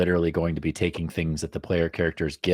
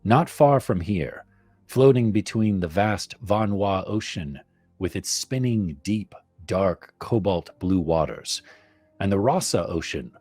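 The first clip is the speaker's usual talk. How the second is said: horror host. Acted. Reads campaign blurb as tale.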